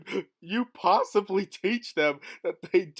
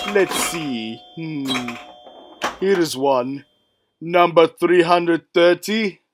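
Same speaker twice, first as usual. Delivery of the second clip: race announcer; 7 dB louder than usual. Acted. Loud announcer.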